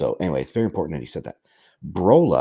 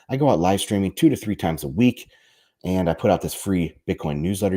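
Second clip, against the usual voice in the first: feeling sick. Real, not acted. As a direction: voice under the weather. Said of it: "feeling under the weather a little bit today with my voice".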